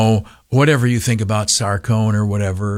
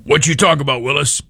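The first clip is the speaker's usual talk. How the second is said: higher-pitched, admittedly bad kid-star voice; Gary Coleman impression; 5 semitones higher, faster than usual. Host hearing Gary Coleman in his head, higher, weak imitation. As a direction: pitch it up like a cute child star, half-hearted. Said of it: "Only higher voice".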